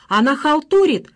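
loud, high jeering shout. A narrator's reading. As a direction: call her out to the whole room. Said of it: "закричала Марина". (громкий издевательский крик)

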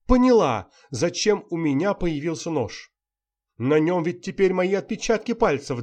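high and loud, frantic begging; panicked pleading. A narrator's reading. Actress begging Dima to save her, high and frantic. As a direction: beg him desperately for help.

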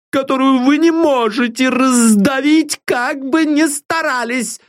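put-on high, protective old maid's voice; a nurse defending her darling; old servant woman. Old servant Deborah defends the girl to her father, high and protective.

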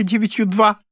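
high, plaintive recitation; tearful babble. A narrator's reading. Poor wife reciting tables, through tears. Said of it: "сквозь слёзы залепетала бедняжка".

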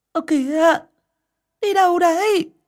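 a high loud call across the yard. A narrator's reading. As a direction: shout after him as he rides off. Wife calls after husband leaving.

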